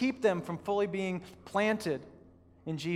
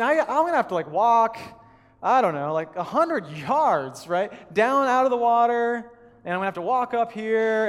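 louder, hammed-up grumbling excuses; mock exasperated reasoning; 2 semitones higher, 6 dB louder than usual. Preacher mocking his own excuses to the congregation, louder and exasperated. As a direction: talk yourself out of helping, loudly. Reluctant inner reasoning, retold.

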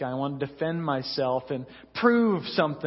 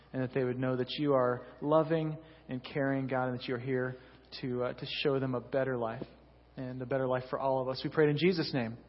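soft, steady prayer voice; 2 semitones lower, 3 dB quieter than usual. Acted. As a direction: pray over the room gently. Pastor leads opening prayer.

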